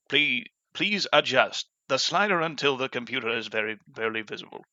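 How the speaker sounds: lightly voiced British announcer; automated British narrator. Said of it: "In order to nail impressions".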